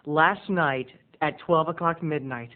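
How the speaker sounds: normal talking voice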